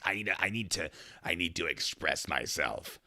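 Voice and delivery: slow, dreamy, unlike the teller's own; weird meth voice. Retold or imitated. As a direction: drift through it dazed. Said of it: "maybe I exaggerated her voice".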